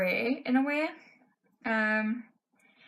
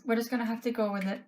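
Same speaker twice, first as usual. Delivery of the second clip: quick, through a hoarse voice; pushing on with a voice going; faster than usual. Real, not acted. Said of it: "I'm just losing my voice".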